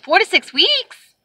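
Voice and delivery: high, drawn-out rising question; incredulous echo. Retold or imitated. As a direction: stretch it slowly upward in disbelief. Echoes agent in disbelief.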